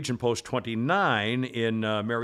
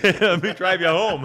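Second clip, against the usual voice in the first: louder, slow mock charmer line; mock gallant; 4 semitones higher, 7 dB louder, slower than usual. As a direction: lay on the smooth offer, slowly. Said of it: "I said".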